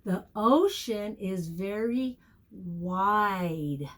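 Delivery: slow, clear example sentence, wide stretched; slow model sentence. Shown as a demonstration. Teacher modelling a sentence slowly for children. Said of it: "Let's think of a sentence".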